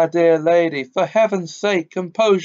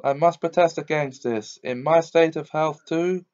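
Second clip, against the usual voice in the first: high, loud whining lament; wailing; 5 semitones higher, 3 dB louder than usual. Acted. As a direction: wail like a self-pitying old man. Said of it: "It was wailing on".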